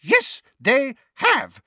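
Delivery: high, loud, drawn-out yell. A narrator's reading. Neighbour whacking Mundungus with her bag, yelling. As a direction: yell it slowly in fury. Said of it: "yelled Missus Figg".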